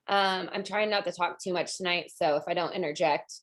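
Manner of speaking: slightly hoarse, raspy throat. Real, not acted. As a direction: talk through a raspy voice. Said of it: "I just got a raspy voice".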